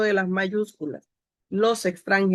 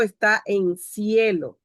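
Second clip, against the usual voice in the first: slow example; slower than usual. Shown as a demonstration. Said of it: "Por ejemplo".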